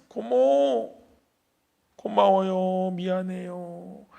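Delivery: tearful thanks. Retold or imitated. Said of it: "울기 시작합니다".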